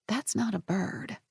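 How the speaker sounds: hushed, slow and very soft; whispered. A narrator's reading. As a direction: breathe it out to herself, slowly. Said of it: "she whispered".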